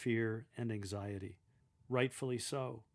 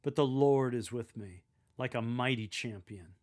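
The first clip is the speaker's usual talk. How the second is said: louder on "But the Lord is with me", hopeful; hopeful confidence; 5 dB louder than usual. Shown as a demonstration. Lector addressing betrayed souls before them, hopeful. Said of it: "Speak with hopeful confidence".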